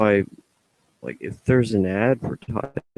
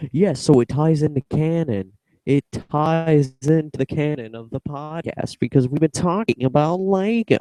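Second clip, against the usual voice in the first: lightly voiced goofy character, pitched higher; silly put-on voice; 6 semitones higher than usual. Explaining the Lego tie-in in a silly voice. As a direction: slip into a playful silly voice. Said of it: "I keep on doing this voice".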